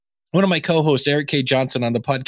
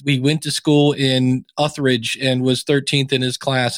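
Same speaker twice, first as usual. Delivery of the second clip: droning bio read, slow; lightly mimicked monotone bio read; 2 semitones lower than usual. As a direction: read it flat like a bored host. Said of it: "reading the bio in a very monotone voice".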